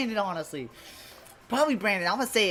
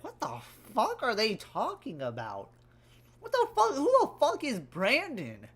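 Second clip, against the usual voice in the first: baffled listener; 3 semitones higher, 3 dB quieter than usual. Acted. Lurker overhearing the stream's conversation, mock baffled. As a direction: imitate a puzzled eavesdropper. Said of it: "probably just hearing our conversation".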